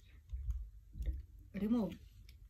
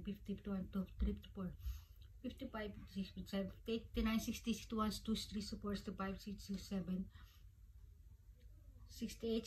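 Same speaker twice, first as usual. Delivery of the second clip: hushed counting; 6 dB quieter than usual. Real, not acted. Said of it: "mahina yung boses natin".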